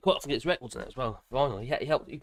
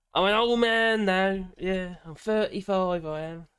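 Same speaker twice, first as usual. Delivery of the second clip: slow, slightly raised mock old man voice; a hint of a creaky old man; 5 semitones higher, 7 dB louder, slower than usual. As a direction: put on a lightly voiced old codger. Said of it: "I can't pull that one off".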